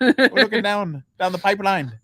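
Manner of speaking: imitated Irish brogue, slowing down; thick Irish brogue. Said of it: "has a very thick Irish brogue".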